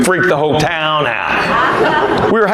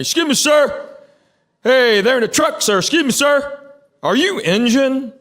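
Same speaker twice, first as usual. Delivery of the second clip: mock yell; 8 semitones higher than usual. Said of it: "he starts yelling at me".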